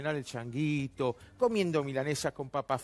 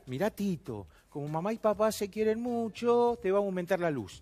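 lightly voiced parent addressing a little kid; mock-gentle explanation for a small child; talking to a child; 3 semitones higher than usual. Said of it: "tratándonos como a chicos".

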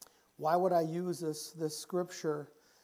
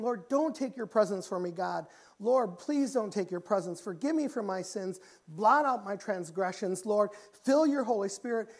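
urgent prayerful plea; acted cry for forgiveness; crying out to God; 2 semitones higher, 4 dB louder than usual. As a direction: beg God as David, voice somewhat raised. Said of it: "he's crying out to God".

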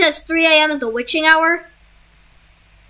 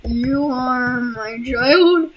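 slow creepy quote; much slower than usual. Retold or imitated. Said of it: "quoted line".

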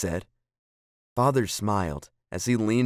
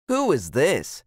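higher, eager asking; curious child's question; 4 semitones higher, 4 dB louder, slower than usual. A narrator's reading. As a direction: ask like a curious little girl. Child runs in with found photo.

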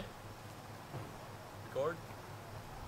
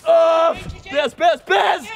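shouting; 14 dB louder, slower than usual. Real, not acted. Cheering on balloon pressing.

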